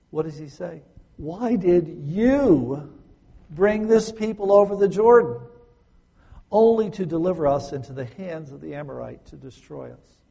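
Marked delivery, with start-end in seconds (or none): 1.2-10.2 anguished cry. Acted. Joshua crying out to God in anguish, loud and pleading. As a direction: cry out the why like a broken man.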